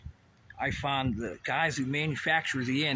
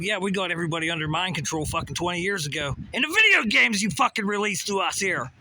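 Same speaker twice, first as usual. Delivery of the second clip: mock Russia quote; 2 semitones higher, faster than usual. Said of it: "'Cause Russia said".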